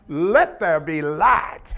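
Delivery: booming, slow voice of God with a little Southern drawl; mock God speaking creation with a Southern accent. Preacher imitating God saying let there be light, booming and slow. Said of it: "this voice comes out".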